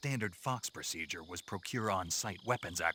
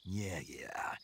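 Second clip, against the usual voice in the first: dismissive. Acted. Brushes off her nagging.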